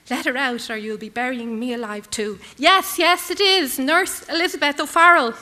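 loud, high pleading cry; desperate cry. Acted. Nurse crying out her name to the soldiers, loud. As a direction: cry out your name to be heard. Nurse answers under fire.

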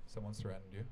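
low, halting attempt at Scottish; badly faked Scottish guard breaking grave news; lightly put-on Scottish accent, pitched low. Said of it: "Scottish accent".

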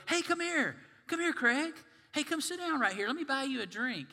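high, loud, hearty bar buddy calling out; booming barroom welcome; loud friendly invite. Retold or imitated. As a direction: wave him over like an overeager pal at the bar. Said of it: "you go".

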